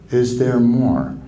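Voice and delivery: drawn out, inviting; slow gentle invitation. Shown as a demonstration. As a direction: ask it slowly and openly. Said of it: "the magic response".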